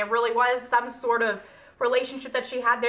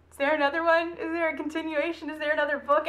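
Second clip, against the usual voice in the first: higher, lightly mocked fan questions; imitated eager readers; 3 semitones higher than usual. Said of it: "everyone's gonna just say".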